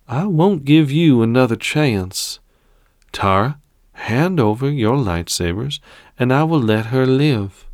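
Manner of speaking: lightly voiced cold emperor; menacing emperor. Emperor threatens Tara.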